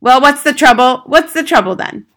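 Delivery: loud, high-pitched irritated demand; hostile mother. A narrator's reading. Mother glaring at the unwelcome teacher, hostile. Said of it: "glared at her and said".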